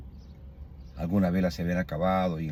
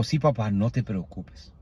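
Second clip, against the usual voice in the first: overcome with emotion; slower than usual. Retold or imitated. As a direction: slowly, voice full of feeling. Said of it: "me invade la emoción". (con emoción, despacio)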